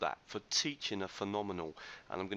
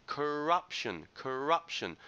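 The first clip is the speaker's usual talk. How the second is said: "corruption" said higher, with RUP punched; stress on second syllable; 4 semitones higher, 4 dB louder, slower than usual. Shown as a demonstration. Teacher giving students pronunciation feedback, stress on RUP in "corruption". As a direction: model "corruption" carefully, leaning hard on the RUP syllable. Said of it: "The stress is on the second syl".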